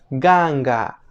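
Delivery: GANGA with hard voiced g in both syllables; K sounded as G. Shown as a demonstration. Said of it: "la K suena como G".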